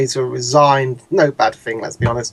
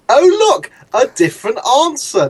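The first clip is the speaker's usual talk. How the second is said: sarcastic surprise; 8 semitones higher than usual. Real, not acted. Mocking the dean's changed answer.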